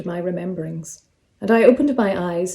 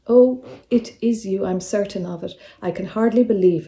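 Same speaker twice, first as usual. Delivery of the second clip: mild excitement. Acted. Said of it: "pink with what looked like excitement".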